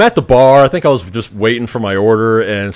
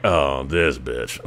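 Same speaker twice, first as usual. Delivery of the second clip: lower, softer, slow disbelieving grumble; low slow mutter; 9 semitones lower, 10 dB quieter, much slower than usual. Retold or imitated. Muttering to himself about the girl, low and slow. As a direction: mutter it under your breath.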